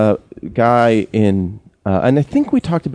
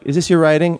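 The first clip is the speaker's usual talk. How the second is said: higher questioning quote; quoted Iggy; 7 semitones higher, faster than usual. Retold or imitated. Storyteller quoting Iggy at Whole Foods, imitated questioning voice. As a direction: lift the pitch to imitate someone asking a question. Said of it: "just be like".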